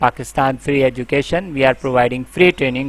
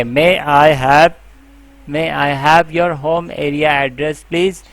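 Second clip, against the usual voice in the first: polite agent request. Shown as a demonstration.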